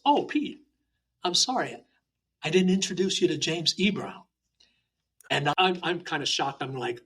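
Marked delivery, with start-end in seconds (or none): 0.0-4.2 higher-pitched, imitating a sudden apology; lightly acted "oh, I forgot" apology; apologetic master's voice. Shihan Ted apologizes for a missed introduction, lightly acted higher voice. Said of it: "Shihan Ted goes".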